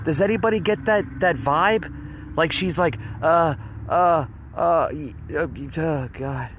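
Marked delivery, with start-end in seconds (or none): 3.2-6.5 mock out-of-breath stammering; imitating the press secretary struggling for breath; imitating winded stammer. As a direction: stutter and gasp like someone winded, fading at the end. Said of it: "She looks like she's winded every single time when she talks".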